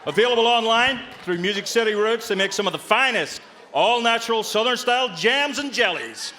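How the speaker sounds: put-on playful Southern accent selling jam; Southern accent done for fun, only lightly; mock Southern accent. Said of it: "That's my proper Southern voice".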